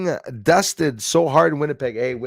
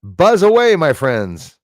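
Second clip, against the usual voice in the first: cheerful call; 5 semitones higher, 8 dB louder, slower than usual. Real, not acted. Cheering to bees.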